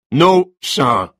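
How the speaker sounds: polite but icy; a cold, tight smile in the voice. Acted. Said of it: "his smile as cold as a church pew".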